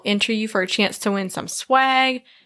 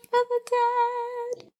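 high ghostly whisper; 6 dB quieter, much slower than usual. Pretend.

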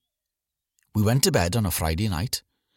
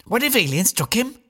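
put-on high, excited little boy voice; young boy William; 13 semitones higher than usual. A narrator's reading. Small son William asks his dad about aliens, high and eager. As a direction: voice a small boy full of wonder. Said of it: "said William".

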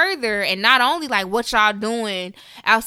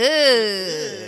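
imitated sitcom-wife groan of disgust; put-on "ugh" in a changed voice; Peg Bundy. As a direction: groan it like an exasperated TV housewife. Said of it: "is that the Peg Bundy sound".

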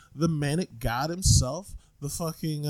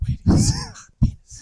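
high squeal; 6 dB louder than usual. Acted. Joke variant, high.

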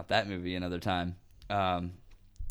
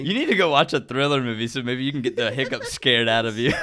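laughing; 2 semitones higher, 4 dB louder than usual. Real, not acted. Teasing the hiccuping friend.

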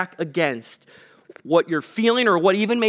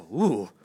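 uneasy ooh; 11 semitones lower, 3 dB quieter than usual. Retold or imitated. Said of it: "you just go".

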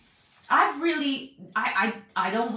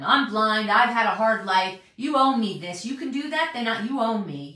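entitled demand; 4 dB louder than usual. Retold or imitated. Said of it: "an attitude that something is owed to them".

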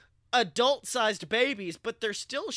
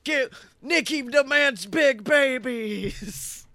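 slow, loud, hammed-up demand; demanding Nicolas Cage; 4 semitones higher, 4 dB louder, slower than usual. Nicolas Cage demanding big babies, slow hammed-up bellow. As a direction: proclaim it like a crazed star, drawn out.

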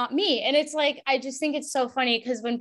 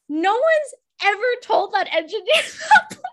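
high, laughing delivery breaking up mid-sentence; laughing while talking; 10 semitones higher, 4 dB louder, faster than usual. Real, not acted. Podcast guest tickled by a TV host's compliment to an engineer, laughing. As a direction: crack up through the words.

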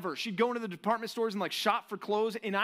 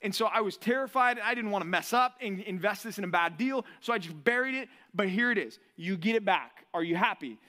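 nervous servant. Retold or imitated. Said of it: "he's like".

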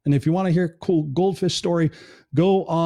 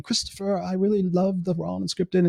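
higher-pitched imitation English accent; 4 semitones higher than usual. Host quoting a friend's voice message, imitated English accent. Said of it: "in her beautiful English accent".

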